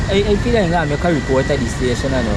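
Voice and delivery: loud, heated demand for money; furious creditor shouting at debtor; angry shouting. Acted. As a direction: yell at him to pay up. Shouting argument continues.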